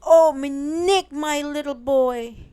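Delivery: high loud relieved cry; cried out. Acted. Father finds his lost son, loud high relieved cry. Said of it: "cried his father".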